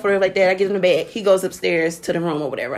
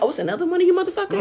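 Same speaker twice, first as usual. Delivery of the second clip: high, fast, laughing exclamation; fast laughing disbelief; 10 semitones higher, faster than usual. Retold or imitated. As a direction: blurt it out while cracking up. Laughing at second weird kid.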